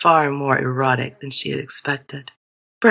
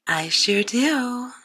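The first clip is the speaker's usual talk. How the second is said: put-on young girl voice; 8 semitones higher, much slower than usual. A narrator's reading. Judy answers eagerly.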